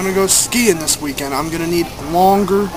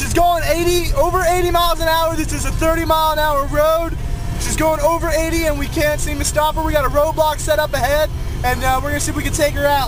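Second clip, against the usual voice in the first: high excited cop narration; 7 semitones higher than usual. Pretend. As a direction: play a reality-show cop. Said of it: "We're on Cops".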